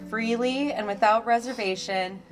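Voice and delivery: formal ceremony voice; officiating a wedding. Real, not acted. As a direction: address the couple like an officiant.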